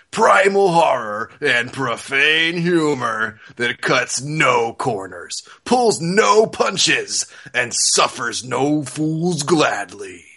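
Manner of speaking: slow, booming blurb read; dramatic reading. Shown as a demonstration. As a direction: read it like an epic trailer voice-over. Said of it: "some dramatic readings of some of the best ones".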